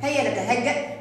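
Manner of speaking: soft attentive teacher voice. Shown as a demonstration. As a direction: hush the class to listen closely. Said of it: "انتبهوا يا أصدقائي". (صوت معلم هادئ ومنخفض)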